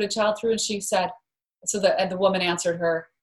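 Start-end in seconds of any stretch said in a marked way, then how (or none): none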